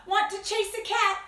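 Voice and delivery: high, loud doggy invitation; storybook dog. Acted. Dog invites the spider to chase cats, high dog voice. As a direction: pitch it up as a keen dog. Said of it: "barked the dog".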